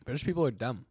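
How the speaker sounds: unvoiced whisper of a jab; hushed conspiratorial whisper; whispered aside. Real, not acted. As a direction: whisper it like a secret.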